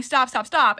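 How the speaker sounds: retold yelling. Daughter to dad stuck on the lawn, retold yelling. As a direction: repeat it insistently, retelling a scream. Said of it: "like, ear-shattering scream".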